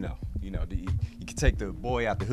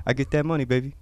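louder, swaggering rapper voice with big laughs; rapper impression; 4 semitones higher, 7 dB louder than usual. Cast member asked for his best impression, plays it loud. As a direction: hype it up like a rapper doing an interview. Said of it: "can we get your best rapper impression?".

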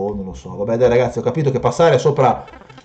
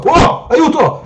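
high-pitched, drawn-out cry for help; slow, shrieked plea; panicked cry; 5 dB louder, much slower than usual. Real, not acted. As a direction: yelp loudly in alarm. Attacked, calls for help.

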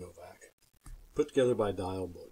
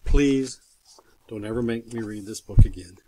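mock plea; 7 dB louder than usual. Begging not to read again.

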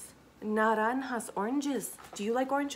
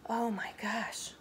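hushed unvoiced amazement; awed whisper; 4 dB quieter than usual. Marvelling at biscuits for a child, a whisper. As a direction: whisper it wide-eyed.

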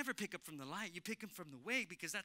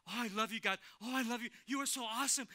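gushing praise; 4 semitones higher, 6 dB louder, faster than usual. Retold or imitated. Retells gushing praise to God while riding.

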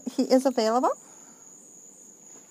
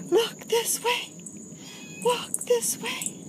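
sing-song call, pitched way up; high-pitched pet-talk coaxing; 11 semitones higher than usual. Real, not acted. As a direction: coax the cat up high and bright. Coaxing a cat to look.

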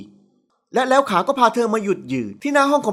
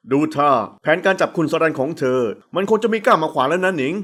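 lower, amused male voice; teasing man; 6 semitones lower than usual. A narrator's reading. Man teasing the secretary, lower and amused. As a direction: needle her with a smirk. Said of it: "พูดกลั้วหัวเราะ".

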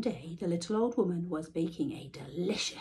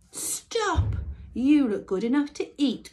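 grunting cow; 6 semitones higher, 6 dB louder than usual. A narrator's reading. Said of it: "grunted the cow".

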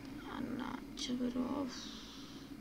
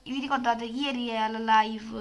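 disguised deep voice; 7 dB louder than usual. Pretend. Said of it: "cambio voce".

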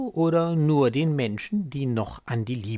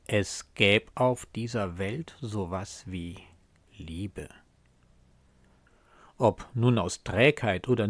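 slow, measured verse with long pauses; poem recitation. Acted. Reciter presents a poem about love and disillusion, measured poem recitation.

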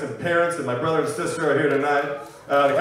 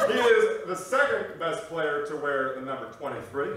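Barack Obama. Acted. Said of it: "he'll make a dad joke".

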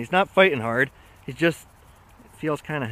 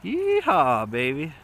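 excited whoop; slower than usual. Real, not acted. Fish on the line.

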